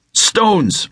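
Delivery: high, slow commanding shout. Acted. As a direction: bark the command at the stones. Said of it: "Nikolai shouted".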